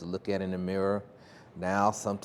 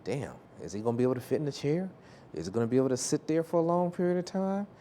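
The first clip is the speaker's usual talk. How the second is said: higher, fast, mock-fretting interviewer; lightly voiced boss sizing him up; imitating a worried employer; 7 semitones higher than usual. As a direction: rattle off a boss's panicked doubts. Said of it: "going like".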